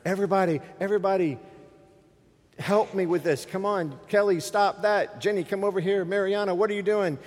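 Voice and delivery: high-pitched, flustered pleading; acted overwhelmed parent, rattling off orders; frazzled dad. Dad alone with three wild kids at dinnertime, high and frantic.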